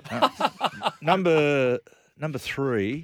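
laughing through the words; real laughter breaking up the word. Real, not acted. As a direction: giggle as you start the line. Laughing at own joke.

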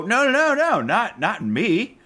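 high, squeaky protesting voice; frantic high denial, trailing off; mock denial.

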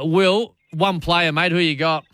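ordinary delivery

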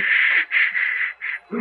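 soft unvoiced hush; shushing. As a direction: hush him gently. Servant hushes sick man.

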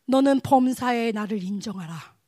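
slow, measured divine pronouncement; God's solemn command. Retold or imitated. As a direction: deliver it as a weighty word from God. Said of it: "하나님이 저한테 뭐라고 하냐면".

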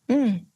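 a brief knowing mm; unimpressed hum. Shown as a demonstration. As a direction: hum like an okay that isn't. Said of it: "like that".

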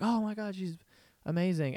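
soft mock gushing; awed audience. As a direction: imitate a hushed, admiring crowd member. Acting out the admiring audience.

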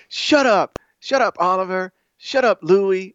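lightly voiced kids snapping back and forth; imitating bickering kids. Dad imitates his kids telling each other to shut up, mock bickering. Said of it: "they tell each other to shut up".

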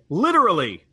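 a hint of Biden's punchy literally; lightly voiced Biden stressing literally; imitating Biden. Imitating Biden saying literally to the Senate. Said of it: "Joe Biden used to say".

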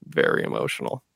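getting emotional. Real, not acted. Fan recalling his hero's last match, getting emotional. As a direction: choke up a little as you say it. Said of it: "I'm gonna get emotional".

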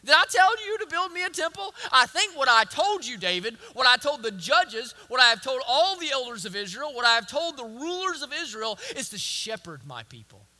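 emphatic God. Acted. Preacher voicing God questioning David, rising and loud. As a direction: press each question harder. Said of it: "He says".

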